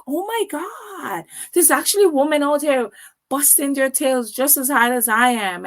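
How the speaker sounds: a retold rush of wonder at the other women; amazed. On her first call, she marvels aloud at the hard-working women. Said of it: "I got into my first call and I was like".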